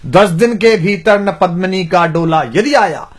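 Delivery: rhythmic Hindi verse recital; poem recitation. Acted. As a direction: declaim it like a court poet.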